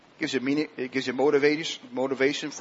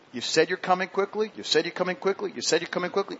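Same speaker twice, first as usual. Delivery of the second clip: eager plea; 5 semitones higher than usual. Retold or imitated. Pleading to the Lord, repeated.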